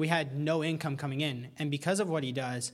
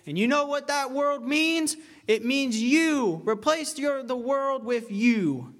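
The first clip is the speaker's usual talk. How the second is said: high, loud preacher voice, slowing to a crawl; quoting a preacher at full force, building then drawing out; fiery preacher; 6 semitones higher, 4 dB louder, slower than usual. Retold or imitated. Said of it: "hear a preacher get up and say".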